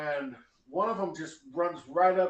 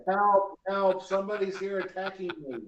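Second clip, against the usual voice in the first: a louder cry of help, half-hearted; mock yell for help; 4 semitones higher, 3 dB louder than usual. Startled gnome woman yells for help at the intruder. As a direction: call for help, only lightly performed. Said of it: "Just yelling".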